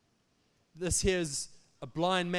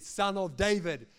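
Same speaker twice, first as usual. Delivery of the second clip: slow, raised-voice call; mild mock yell; 4 dB louder than usual. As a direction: call out desperately, stretching the words. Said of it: "He yelled out even more".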